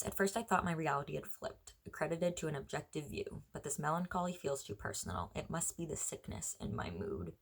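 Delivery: measured, understated poetry recital; poem reading. Acted. Rereads lines of the poem.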